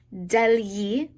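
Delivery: "degli" said DEL-yee, gli as in yeehaw. Shown as a demonstration. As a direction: model "degli" with a yee ending. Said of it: "like yeehaw".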